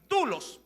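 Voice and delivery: dulos said with a plain u, short and clear; dulos, teacher's simple pronunciation; pronounced dulos. Shown as a demonstration. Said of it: "Se la podría pronunciar así".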